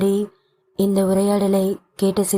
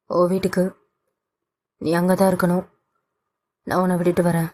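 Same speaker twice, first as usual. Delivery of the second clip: gentle father; faster than usual. Acted. Father voiced.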